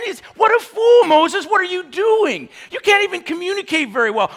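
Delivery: high, loud scornful jeer; loud heckling scorn; mocking shout. Jeering at Moses.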